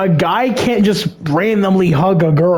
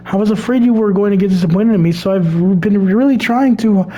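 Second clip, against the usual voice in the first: nervous Sayori voice; 4 semitones higher than usual. Acted. Sayori voice continued.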